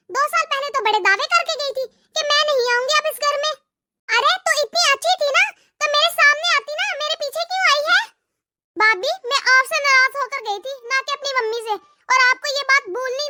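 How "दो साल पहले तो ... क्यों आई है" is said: jab at her with mock sweetness; sarcastic taunt. Bhabhi taunts Nadia on arrival. (ताने मारती भाभी, थोड़ी ऊँची आवाज़ में)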